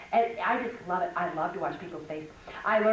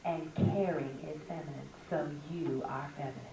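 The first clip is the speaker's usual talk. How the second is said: imitating Mrs Hiles; 4 semitones lower, 5 dB quieter than usual. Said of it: "she talked like this".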